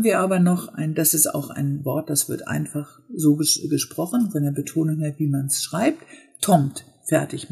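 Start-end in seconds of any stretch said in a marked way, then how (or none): 6.4-6.9 "tommt" with one short rise; Swedish tomt, accent one. Shown as a demonstration. Teacher showing Swedish tomt to learners, short rising "tommt". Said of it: "Man geht kurz hoch".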